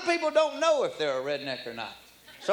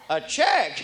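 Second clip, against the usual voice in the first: laughing disbelief. Retold or imitated.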